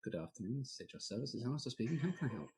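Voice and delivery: lightly voiced HR receptionist; soft, polite office phone manner. Shown as a demonstration. Host demonstrating his HR phone voice, softly polite. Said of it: "That's my H R voice".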